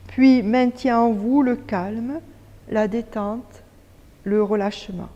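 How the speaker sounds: measured yoga nidra guide voice with long pauses; guided meditation. Acted. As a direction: lead them calmly into stillness, phrase by phrase. Guide une séance de yoga nidra. (voix posée de méditation guidée)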